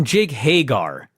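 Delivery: Hagar with a full "gar" ending; imitated mispronunciation, Hagar for Hager. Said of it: "if that's how we're supposed to pronounce it".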